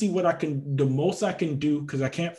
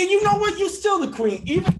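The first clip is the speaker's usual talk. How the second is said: playful concession; 7 dB louder than usual. Real, not acted.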